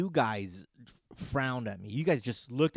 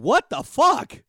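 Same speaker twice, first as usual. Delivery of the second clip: shocked; 12 semitones higher, 10 dB louder, slower than usual. Real, not acted. Reacts to ghost hunting.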